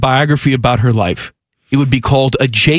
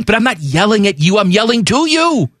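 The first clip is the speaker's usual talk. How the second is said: raised pitch, "to" punched against "at"; stress on TO; 4 semitones higher than usual. Retold or imitated. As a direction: argue it higher, hitting the word "to". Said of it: "That's the difference".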